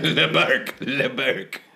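mock French. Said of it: "French bark".

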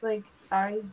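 laughing. Real, not acted. Laughing while talking.

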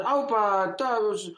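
loud, hearty imitation of a Basque accent. Asking to borrow thirty euros, imitated Basque accent. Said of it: "Porque es acento vasco".

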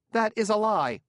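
high, loud and indignant; angry outburst. Acted. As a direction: snap back, outraged. Accused, he bursts out.

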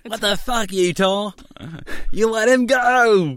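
put-on high, shouted Australian accent. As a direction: yell it, Aussie cop. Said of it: "doing an Australian accent".

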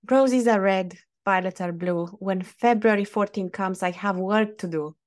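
poem recital. Acted. Co-host asked to sum up Valentine's Day, reciting a joking rhyme. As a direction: recite it like a little poem, tongue in cheek. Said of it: "Look at the poet in you".

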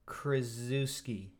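Krzyzewski said slowly as "shuh-SHEF-skee"; careful name pronunciation. Shown as a demonstration. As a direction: spell out Krzyzewski slowly, syllable by syllable. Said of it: "Do you know how to say his name?".

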